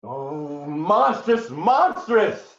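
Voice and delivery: high, loud horrified outburst; outraged cry. Acted. Husband cries out in horror at the ensign's tale. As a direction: spit out the word twice in horror.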